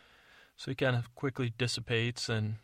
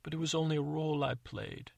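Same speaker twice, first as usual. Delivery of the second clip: slightly higher earnest confession; lightly voiced sincere stepmother; confessing stepmother; 5 semitones higher than usual.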